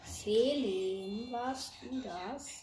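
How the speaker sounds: whispered teasing question. Real, not acted. Teasing friend in voice chat. (geflüstert, neckend)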